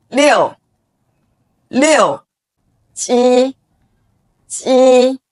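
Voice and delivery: each number said twice, slowly and crisply with its Mandarin tone; clear model pronunciation. Shown as a demonstration. Teacher models 一 to 十 for students to repeat, crisp Mandarin tones. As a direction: model every tone cleanly, pausing between numbers. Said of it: "Listen carefully and repeat after me".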